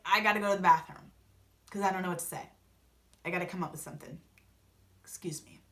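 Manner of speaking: low, hurried mumble fading to a whisper; flustered excuse. Retold or imitated. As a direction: imitate slinking off with an excuse. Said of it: "he was clearly flustered".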